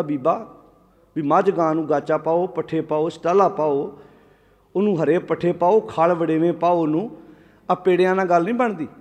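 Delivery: lightly acted, low and soft counsel; understated voice of a patient adviser; gentle advice. Granthi gently advising villager, acted.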